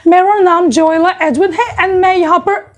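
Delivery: rushed Hindi with a mock English accent. Foreign visitor introducing himself in Hindi, mock English accent. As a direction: imitate a foreigner fumbling Hindi with English sounds. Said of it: "he's speaking Hindi in an English accent".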